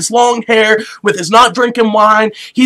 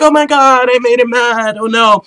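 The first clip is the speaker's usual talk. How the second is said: hammed-up dismay; distressed new wife; 2 semitones higher than usual. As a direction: fret as the wife, playfully overdone. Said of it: "his new wife is there like".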